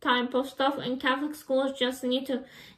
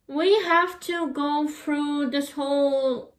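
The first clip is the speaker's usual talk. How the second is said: yawning; slower than usual. Real, not acted. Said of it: "I'm a yawning mess today".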